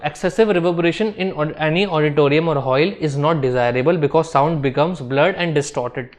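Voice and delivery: reading notes out word by word for students to copy; slow dictation. Shown as a demonstration. Teacher dictating a definition to the class, slow and measured. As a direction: dictate it slowly and evenly, like notes to write down.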